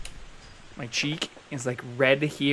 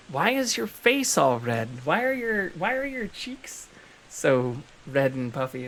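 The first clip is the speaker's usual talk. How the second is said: friend's voice; 2 semitones higher than usual. Retold or imitated. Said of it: "But they were like".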